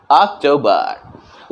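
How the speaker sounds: "अक्टूबर" ending on a light r; American October. Shown as a demonstration. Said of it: "American English में केवल अ के जगह पे हम र का साउंड".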